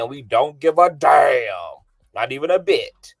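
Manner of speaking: loud defiant. Real, not acted. Defiant rant.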